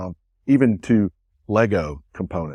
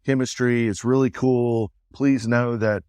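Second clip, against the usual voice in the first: higher, sugary imitation of a British AI voice; sweet British lady; 3 semitones higher than usual. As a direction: coo it like a kind British assistant. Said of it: "super sweet British voice".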